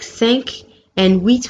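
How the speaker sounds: "cinq" ending in k, "huit" ending in t; "cinq" and "huit" with audible final consonants; final letters pronounced. Shown as a demonstration. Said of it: "have their last letters being pronounced".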